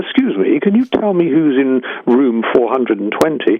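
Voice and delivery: put-on posh, courteous upper-class English accent. Phoning hotel reception to ask who is in his own room, polite upper-class english accent. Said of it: "with my politest upper-class English accent".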